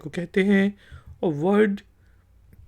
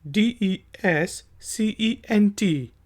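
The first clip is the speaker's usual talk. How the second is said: slow spelling; much slower than usual. Shown as a demonstration. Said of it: "फिर word है जी".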